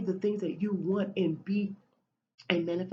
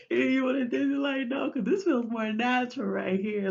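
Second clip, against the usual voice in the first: loose excited voice; 5 semitones higher, 5 dB louder than usual. Retold or imitated. Voicing a relaxed new self.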